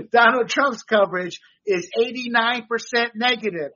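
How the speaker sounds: mock-cheerful understatement; sarcastic. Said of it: "I'm being sarcastic, people".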